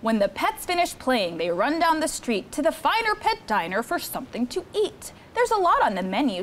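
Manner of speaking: put-on lively read-aloud for children; storybook reading. Counselor reading Cat in the Hat book to campers, lively storytime. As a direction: read the rhymes to the kids with bounce.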